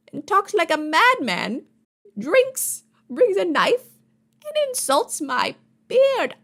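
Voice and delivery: high-pitched, hammed-up judicial fury; outraged judge. Judge condemns witness who insulted his beard, outraged. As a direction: splutter with theatrical outrage, pitch soaring.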